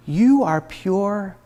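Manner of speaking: soft and very slow; still small voice. Acted. The true inner voice speaking to her, soft and very slow. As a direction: let it land gently, barely above a breath. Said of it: "The still, small voice".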